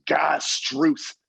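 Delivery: put-on exclaimed oath in an Irish accent; thick Irish accent. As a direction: curse like a Northern Irish dad. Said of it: "a big, thick Irish accent".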